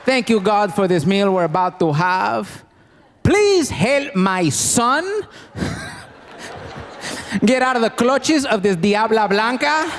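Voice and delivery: religious mother praying, slow and solemn; mock prayer. Mother bad-mouths son's wife while praying, mock solemn. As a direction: lead grace solemnly, sneak in the insult. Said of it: "She's like".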